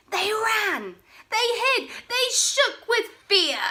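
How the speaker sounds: high, loud breathless telling; dramatic narration. A narrator's reading. Narrator telling the dinosaurs fleeing, high and excited. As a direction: pump up the panic as they flee.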